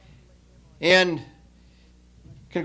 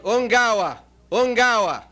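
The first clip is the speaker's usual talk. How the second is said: mild mock yell, each cry falling; mock tribal yell; 4 semitones higher than usual. After-dinner speaker imitates a tribe cheering the coach, mild mock yell. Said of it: "yelled out".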